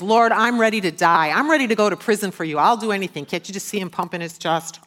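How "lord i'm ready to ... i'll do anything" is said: loud, bold vow, a little higher; bold declaration. Acted. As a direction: declare it boldly, chest out. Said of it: "boldly declares".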